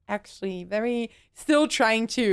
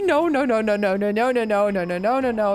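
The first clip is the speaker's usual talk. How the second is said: panicked yelling; faster than usual. Real, not acted. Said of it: "I'm sorry for yelling".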